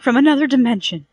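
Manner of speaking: high, loud triumphant cry of from another dimension; excited cry. A narrator's reading. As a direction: crow it out, proven right. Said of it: "she cried".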